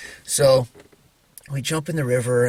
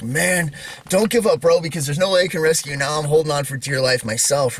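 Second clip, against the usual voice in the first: higher-pitched retold plea, easing toward the end; urgent plea; 4 semitones higher, 3 dB louder than usual. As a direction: urge your brother on in a retold panic. Acted urgent plea to his brother.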